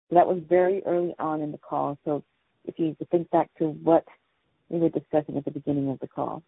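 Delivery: muffled voice, mic badly placed. Real, not acted. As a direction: talk like the mic is covered. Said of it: "you sound muffled".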